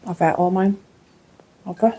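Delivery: talking through a mouthful; words round a bite of cake; mouth full. Real, not acted. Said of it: "Talking my mouth full".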